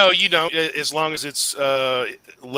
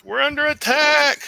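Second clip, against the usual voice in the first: high alarmed cry; alarm shout; 13 semitones higher, 4 dB louder than usual. Acted. NPC calling alarm.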